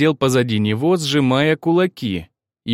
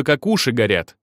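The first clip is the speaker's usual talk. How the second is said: usual speaking voice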